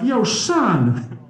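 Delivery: high, loud mock street holler; street hip-hop greeting. Speaker showing one side of himself, loud street hip-hop greeting. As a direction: shout it out with exaggerated street swagger. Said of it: "one standard deviation over here".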